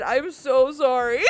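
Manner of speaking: slow sorry trailing into a laugh; sheepish streamer, still laughing; laughing apology. Real, not acted. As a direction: giggle the apology out. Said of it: "I get worked up and excited".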